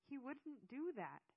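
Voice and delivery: incredulous, drawn-out objection; shocked denial. A narrator's reading. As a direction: protest slowly, refusing to believe it. Narrator shocked by the accusation.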